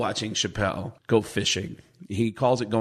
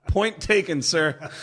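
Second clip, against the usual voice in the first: laughing; 5 semitones higher, slower than usual. Retold or imitated.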